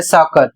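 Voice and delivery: सॉकर with double C as one "k"; pronunciation demo. Shown as a demonstration. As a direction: model सॉकर with a hard "k" in the middle. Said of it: "इसे पढ़ा जा रहा है". (सॉकर में क का उच्चारण)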